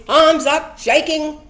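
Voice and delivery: loud, high and laughing through it; high, laughing burst while describing the dance. Real, not acted. Describing her wild dance, laughing.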